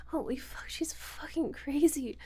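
hushed, slow terrified whisper; frightened whisper. Acted. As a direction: whisper it so she won't hear.

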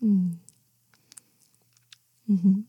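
normal talking voice

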